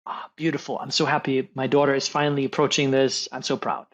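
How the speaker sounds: gently acted proud dad; proud father.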